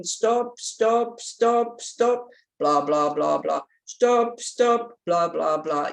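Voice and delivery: mock-scold her own gossiping; playful self-imitation. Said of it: "at the red light going".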